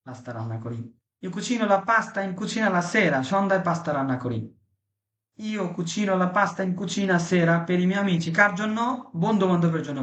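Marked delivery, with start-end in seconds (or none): 1.2-3.2 slow, careful model reading; teacher pacing a drill line; slow model sentence. Shown as a demonstration. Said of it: "teacher models Italian sentence slowly". 5.4-8.3 slow, careful model reading; teacher pacing a drill line; slow model sentence. Shown as a demonstration. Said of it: "teacher models Italian sentence slowly".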